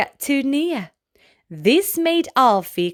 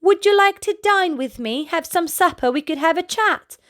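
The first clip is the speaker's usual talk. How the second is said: hopeful invitation; 7 semitones higher than usual. Acted. Alfie invites the giraffe.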